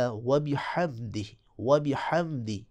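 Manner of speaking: و بحمدہ slow with a clear final i; right tajweed take of بحمدہ; correct bihamdihi. Shown as a demonstration. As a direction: say و بحمدہ ending in a pure i. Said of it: "حمدے بھی نہیں پڑھنا".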